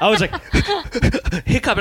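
laughing while telling it, voice jumping up. Real, not acted. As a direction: crack up mid-sentence. Laughing while telling hiccup story.

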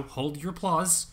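milking the applause. Pretend. Award-show host milking applause.

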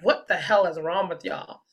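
mock incredulous man, laughing through it; loud amused disbelief, voiced as him; a guy baffled by crying strangers, mock scolding; imitating the guy. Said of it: "He was like".

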